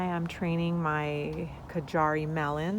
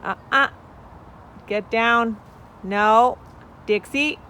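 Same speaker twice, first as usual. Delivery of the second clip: loud high scold at a chicken; scolding shout; 5 semitones higher, 13 dB louder than usual. Real, not acted. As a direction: shoo the hen off, sharply. Scolding her chicken Dixie.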